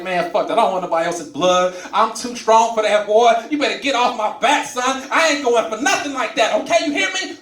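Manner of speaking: mock tough guy. Young patient boasting to the old doctor, mock tough bravado. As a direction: puff up like a tough young dude.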